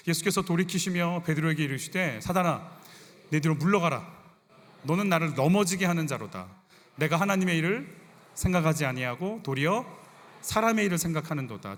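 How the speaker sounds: measured, emphatic Bible reading; firm pulpit recitation; scripture reading. Acted. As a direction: read the verse aloud for a congregation to follow. Reads scripture aloud with congregation.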